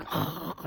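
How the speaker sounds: soft, voiceless gurgling breath; imitated gurgling. Bystander mimics the injured driver's noise, gurgling. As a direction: breathe out like a dying man's gurgle. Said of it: "he's gurgling".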